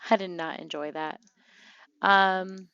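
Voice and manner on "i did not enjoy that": said through a laugh. Real, not acted. Player laughing at her sim freezing to death. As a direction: laugh it off while repeating.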